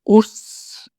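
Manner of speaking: a hint of a young man's gruff hey; young guy's greeting. Shown as a demonstration. Teacher demoing how young friends say morning, a young man's casual greeting. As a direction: toss it off like a young buddy. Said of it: "若い人たちの挨拶はこんな感じです".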